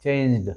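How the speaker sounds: चेंज्ड as one syllable, closing on d; demonstrated pronunciation. Shown as a demonstration. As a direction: end चेंज्ड on a bare d, no added vowel. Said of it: "असं pronunciation आहे".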